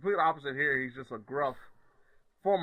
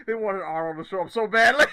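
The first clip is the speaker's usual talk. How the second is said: loud, higher, through laughter; laughing exclamation; 4 semitones higher, 10 dB louder than usual. Real, not acted. Co-host cracking up over the hoped-for Arnold cameo, laughing loudly. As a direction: burst it out loudly while laughing.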